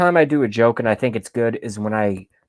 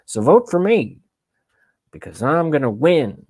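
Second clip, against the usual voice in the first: Biden impression; 3 semitones higher than usual. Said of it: "Was that at my Biden parody?".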